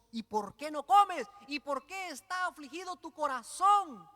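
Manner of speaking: high, puzzled mock husband; mock clueless husband. Elcana asking his weeping wife, mock baffled and high. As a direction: play the baffled husband, a touch hammed.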